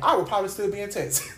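speech breaking into a laugh. Real, not acted. Preacher admits she'd be stuck in Texas, laughing. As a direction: laugh at your own admission at the end.

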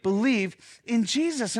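slow call for the congregation to repeat; led confession. Shown as a demonstration. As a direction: pastor leading the church in a creed, deliberate. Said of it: "Say it again".

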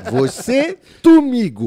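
high, hammed-up boss voice swapping r for l; boss with Cebolinha speech. Retelling a police shift, teller mimics boss assigning cars in a high mock voice. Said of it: "Ela metia o Cebolinha".

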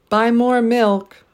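deliberate stress on every word; three stressed words. Shown as a demonstration. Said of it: "stress three syllables in each phrase".

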